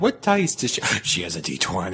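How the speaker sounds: surprised realisation. Retold or imitated. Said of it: "I'm like".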